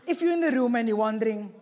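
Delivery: talking through a real laugh; amused, laughing aside. Real, not acted. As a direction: chuckle the words out fast. Joking about his own accent.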